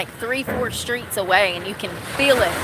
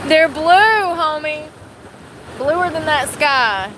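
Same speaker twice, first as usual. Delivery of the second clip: excited; 7 semitones higher, 6 dB louder, slower than usual. Real, not acted. Excited over blue ship.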